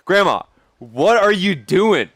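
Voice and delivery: high, slow baffled "Grandma, what are you doing?"; stretched-out disbelief at grandma; asking grandma. Retold or imitated. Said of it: "I'm like".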